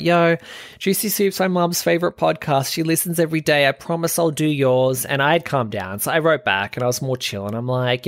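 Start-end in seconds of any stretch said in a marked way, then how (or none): 0.0-5.0 imitating Spencer. Reassuring the narrator over message, in a lightly imitated Spencer voice. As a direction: toss it off casually like a laid-back friend. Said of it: "Spencer was like".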